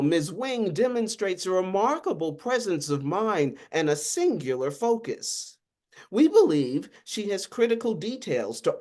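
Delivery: a lightly voiced official, cool and matter-of-fact; unapologetic official. Agent calmly briefs the lawyer, a hint of an unapologetic official. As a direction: state it like a bureaucrat who owes no apology. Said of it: "Donald's tone was not apologetic".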